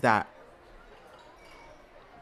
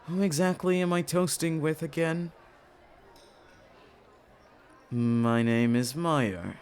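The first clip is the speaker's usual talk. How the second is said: character voice; 5 semitones lower than usual. Acted.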